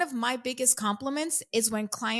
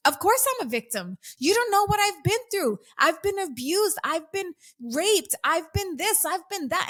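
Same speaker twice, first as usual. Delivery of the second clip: higher, imitating her furious younger self; indignant retold rant; 8 semitones higher than usual. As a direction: fire it back, offended and defensive. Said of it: "So I'm pissed off, and I'm like".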